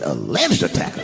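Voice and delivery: "Alleged" drawn out slowly in disbelief; incredulous stress on Alleged. Retold or imitated. Comedian objecting to the headline, incredulous stress on "Alleged". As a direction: lean slowly on "Alleged", questioning it.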